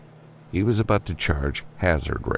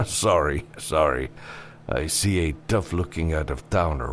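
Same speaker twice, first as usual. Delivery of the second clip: lightly voiced bartender, a touch softer; amused saloon bartender; 3 dB quieter than usual. Bartender teasing an out-of-town customer, lightly amused. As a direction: play a wry barkeep lightly.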